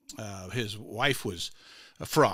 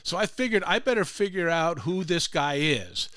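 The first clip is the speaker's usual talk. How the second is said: imitated thick Hispanic accent, a little higher; 4 semitones higher than usual. Groundskeeper explains his curiosity to visitor, in thick Hispanic accent. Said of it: "Hispanic accent".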